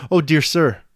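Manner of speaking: woman clutching a stranger's legs, imploring; crying out. A narrator's reading. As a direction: cry out to him for help. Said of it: "she cried".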